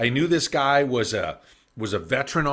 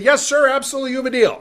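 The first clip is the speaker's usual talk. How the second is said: much higher and louder, bursting yes sir; eager acceptance; 12 semitones higher, 7 dB louder, faster than usual. Retold or imitated. Young salesman accepts the Texan's offer, excited. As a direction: grab the deal with excited eagerness.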